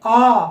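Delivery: "आ" held long, about twice the length of a short अ; drawn-out aa. Shown as a demonstration. Teacher showing students the long vowel, "आ" held long. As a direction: stretch "आ" into a long open aa. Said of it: "इसको थोड़ा ज्यादा समय लगता है".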